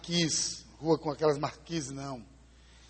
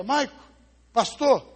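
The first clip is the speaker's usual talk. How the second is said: stunned grandmother; 8 semitones higher, 8 dB louder, slower than usual. Acted. Grandmother repeats like a record.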